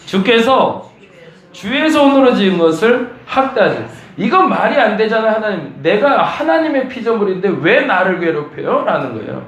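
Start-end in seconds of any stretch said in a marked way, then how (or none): 0.0-3.9 higher, louder scripture read; emphatic reading. Shown as a demonstration. Pastor reading Job's protest, higher and louder. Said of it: "읽어봅니다". 5.8-8.8 indignant protest. Acted. Voicing Job's protest.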